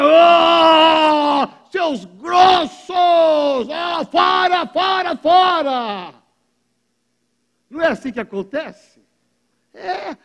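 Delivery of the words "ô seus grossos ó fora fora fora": boo the team off like angry fans; jeering crowd. Retold or imitated. Preacher mimics fans booing a losing team. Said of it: "a perder a turma".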